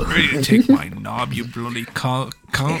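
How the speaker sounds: botched British insult; badly faked British; British accent. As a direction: attempt British and stumble on the insult. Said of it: "I tried to say cucks in a British accent".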